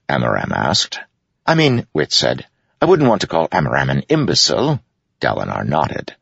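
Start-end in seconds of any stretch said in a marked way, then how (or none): 1.5-1.9 sly jester. Acted. Wit quips. 2.8-4.8 sly jester. Acted. Wit insults.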